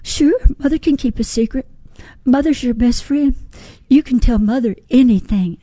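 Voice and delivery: put-on a mother promising her little girl, gently; loving mother. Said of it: "She says".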